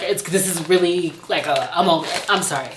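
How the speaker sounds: holding back tears over a kind gift; about to cry. Real, not acted. Reading a friend's card, near tears. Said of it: "I don't wanna be crying".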